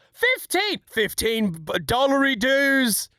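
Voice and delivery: high, drawn-out Aussie exclamation; cartoonish Australian accent, stretched out; mock Australian accent. Streamer hamming up a fifteen dollar donation, mock Australian.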